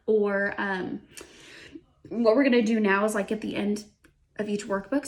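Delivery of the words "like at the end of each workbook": talking through hiccups; hiccuping. Real, not acted. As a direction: hiccups breaking the words. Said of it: "I have the hiccups all of a sudden".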